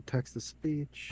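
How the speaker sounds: slow, robotic Text to speech. Shown as a demonstration. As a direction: say it like a computer voice. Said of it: "Hold on".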